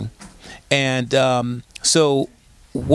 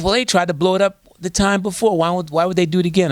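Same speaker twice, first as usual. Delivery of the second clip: imitated skeptical caller, higher voice; caller with attitude; 5 semitones higher than usual. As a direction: challenge it in a raised sassy voice. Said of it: "she calls up with attitude".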